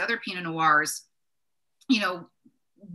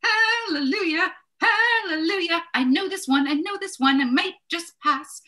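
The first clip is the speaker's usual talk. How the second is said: mock jubilant relief; 9 semitones higher, 4 dB louder than usual. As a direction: ham up the joy of spotting the wine. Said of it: "you're kinda like".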